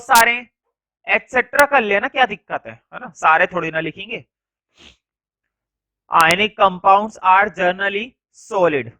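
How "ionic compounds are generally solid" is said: word by word, very slow, with long pauses; slow classroom dictation. Shown as a demonstration. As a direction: dictate each word so the class can write it down. Teacher dictating notes slowly.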